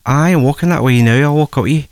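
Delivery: retold reply in a touch of Scottish; Scottish accent. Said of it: "I think he was Scottish".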